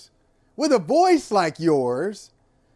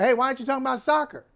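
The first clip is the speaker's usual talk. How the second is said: mock soccer fan. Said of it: "They say they want the support".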